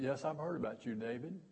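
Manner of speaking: softly, knowingly, a little ominous; quiet ominous. Retold or imitated. Retold teacher's ominous greeting.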